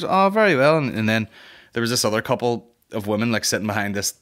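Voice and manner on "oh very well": put-on posh old man. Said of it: "And he goes".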